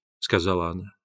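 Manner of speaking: ordinary delivery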